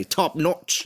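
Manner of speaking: imitated Australian accent on "Top notch"; Seth Mapod. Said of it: "as Seth Mapod would say".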